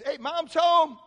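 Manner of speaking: put-on loud, high call to the kids. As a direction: announce it through the house. Calling to the kids.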